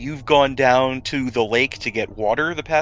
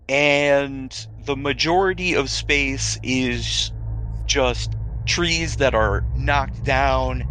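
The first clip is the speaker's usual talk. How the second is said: storyteller building suspense; game master scene setting. Acted. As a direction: set the ominous scene, taking your time. GM describes the destroyed clearing.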